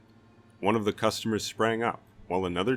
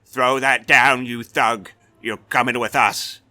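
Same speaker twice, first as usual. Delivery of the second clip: guard bellowing at the armed stranger, loud and higher; full shout; 5 semitones higher, 10 dB louder than usual. A narrator's reading. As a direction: bellow it to get control.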